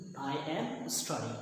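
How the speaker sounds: slow, careful teaching read; slow model sentence. Shown as a demonstration. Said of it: "ये थोड़ी देर के लिए सच है". (धीरे-धीरे सिखाते हुए)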